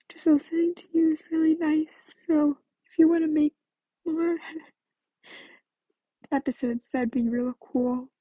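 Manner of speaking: tearful, catching breath midword; crying. Real, not acted. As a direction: talk through tears, breath catching. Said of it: "sorry I'm crying".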